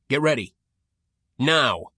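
loud battle command; cover me shout. A narrator's reading. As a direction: shout the go signal. Adam signals covering fire.

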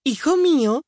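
high, loud call from another room. A narrator's reading. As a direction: call across the house. Mother calling from kitchen.

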